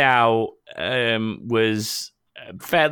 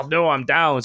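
tag mock Scottish accent; 5 semitones higher than usual. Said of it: "he sounds like he's going".

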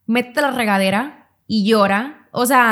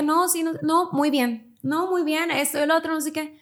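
higher, softer, falsely upbeat denial; mock "I'm fine"; 5 semitones higher, 4 dB quieter than usual. To her psychologist, pretending everything is fine, higher and softer. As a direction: brush it off as if all is well.

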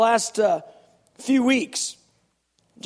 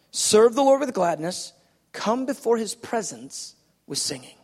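scripture reading. Shown as a demonstration. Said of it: "look at this, verse two".

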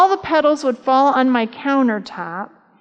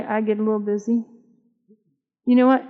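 ordinary talk

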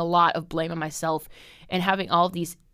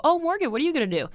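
fast, much higher mock-sweet question; a quick, lilting imitation of a pitying coworker; sing-song coworker mimic; 9 semitones higher, much faster than usual. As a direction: mimic the coworkers' chirpy pity. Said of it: "look at me and go".

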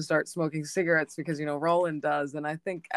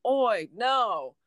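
higher, drawn-out mock scream; retold scream; 5 semitones higher than usual. Retelling Jake calling to Oi, mildly screamed. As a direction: mildly cry out in retold alarm, stretching the "no". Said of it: "that's when he screams".

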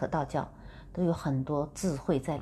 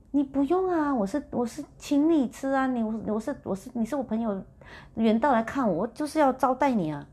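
higher-pitched, pushy host urging his guest; insistent friend; 6 semitones higher than usual. Retold or imitated. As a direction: press the offer like an eager host. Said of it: "他说". (梦里朋友热情劝她吃蟹，语调偏高而急切)

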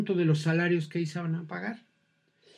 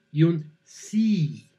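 a slow, drawn-out doubtful yes; conditional yes; much slower than usual. Shown as a demonstration. Teacher contrasting a yes, now slow and doubtful. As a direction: stretch the yes so it sounds unsure. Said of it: "la diferencia entre un sí".

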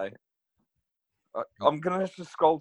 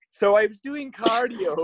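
slow, badly done Irish accent, a bit louder; attempted Irish accent; 5 semitones higher, 4 dB louder, slower than usual. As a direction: have a halting go at an Irish accent. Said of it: "try and do the accent".

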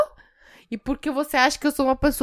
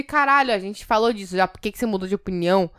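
quick, mock-accusing question; accusing demo; 2 semitones lower than usual. Shown as a demonstration. Showing her co-host what she didn't mean, accusing. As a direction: ask it fast, as if annoyed at a change of mind. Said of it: "Mas não foi no sentido de".

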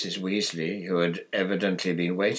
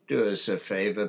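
yawning; 4 dB louder than usual. Acted. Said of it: "said Bill, yawning".

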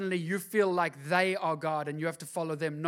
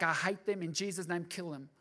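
mock muttered prayer; 6 dB quieter than usual.

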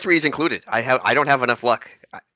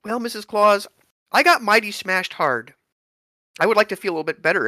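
character voice; 8 semitones higher than usual. Acted. Player voices character to Mrs Claus.

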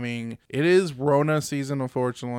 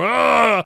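jump-scare shout; 7 semitones higher, 6 dB louder than usual. Retold or imitated. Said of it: "jump out in the maze and go".

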